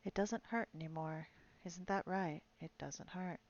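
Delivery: a lightly voiced soft, coaxing reassurance; gentle soothing voice. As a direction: coax the dying man gently to talk. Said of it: "a quiet, gentle, soothing voice".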